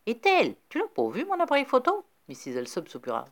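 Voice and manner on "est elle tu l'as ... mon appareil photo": plaintive. A narrator's reading. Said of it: "la voix plaintive de Mister Alsop".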